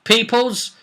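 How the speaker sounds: hammed-up doom-laden warning; Costello's prophecy. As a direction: condemn the snake people from on high. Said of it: "who said".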